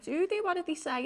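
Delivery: high, loud startled questions; retold urgent questioning. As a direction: re-enact pressing him for answers. Retells her urgent questions to friend.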